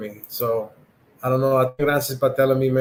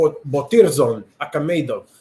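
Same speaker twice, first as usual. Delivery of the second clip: fake, put-on Russian accent; 3 dB louder than usual. Saying a hard fighter's name: put-on Russian accent. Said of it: "I'm gonna go with my Russian accent here".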